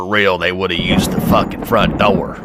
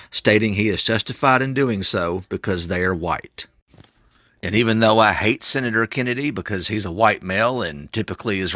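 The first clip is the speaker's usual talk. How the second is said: parody news anchor; 4 dB quieter than usual. Acted. Reads a mock news report.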